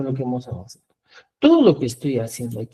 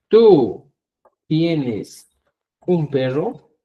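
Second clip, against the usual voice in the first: slow spaced example; 4 dB louder, much slower than usual. Shown as a demonstration. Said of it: "Si tú quieres hablar de la segunda persona y decís".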